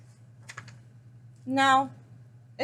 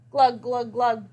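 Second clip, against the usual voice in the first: gurgle; 5 dB louder, slower than usual. Acted. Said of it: "gurgled Hedgehog".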